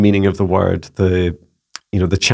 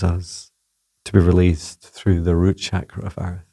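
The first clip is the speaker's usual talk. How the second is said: unhurried spiritual invocation, trailing softly at phrase ends; channeled meditation; 4 dB quieter than usual. Acted. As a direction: guide the release gently, phrase by phrase. Channels a healing meditation as Gaia.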